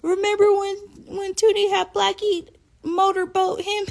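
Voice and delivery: high, loud, laughing quote; laughing retelling. Retold or imitated. Brothers bringing it up, laughing high. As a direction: squeal it through laughter.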